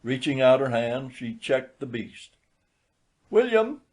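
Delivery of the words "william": gentle. A narrator's reading. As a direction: call his name gently. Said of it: "said she, very gently".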